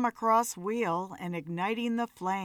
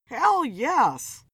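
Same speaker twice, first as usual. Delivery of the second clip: croaked; 5 semitones higher, 5 dB louder than usual. A narrator's reading. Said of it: "Philip croaked".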